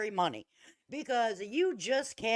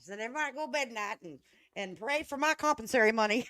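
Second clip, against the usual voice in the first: mocking parody; 3 semitones higher, faster than usual. Mocking Betty's bedtime speech.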